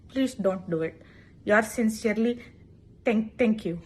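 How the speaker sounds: soft, overly formal request; politely complain, a touch passive-aggressive; mock polite. Student politely complaining to teacher about spit, soft.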